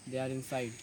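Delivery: low, soft, shamefaced reply; ashamed. A narrator's reading. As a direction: shrink back, admitting it quietly. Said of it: "He said shamefully".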